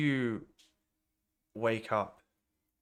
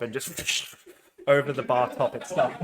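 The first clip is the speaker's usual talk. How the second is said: laughing; 2 semitones higher, 4 dB louder than usual. Real, not acted. GM laughing at the gnoll's fall.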